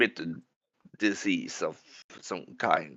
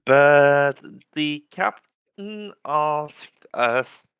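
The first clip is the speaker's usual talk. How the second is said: loud; 5 semitones higher, 6 dB louder, slower than usual. Retold or imitated. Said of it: "he says "us" really loud".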